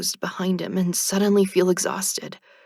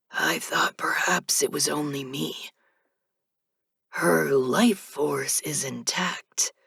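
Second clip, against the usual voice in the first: hushed reaper; 2 semitones lower, slower than usual. Acted. Reapers speak in hushed tones.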